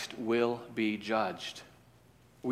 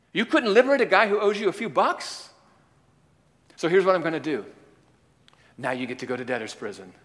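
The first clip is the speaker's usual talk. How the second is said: angry master; 2 semitones higher than usual. Acted. Master rebukes wicked servant.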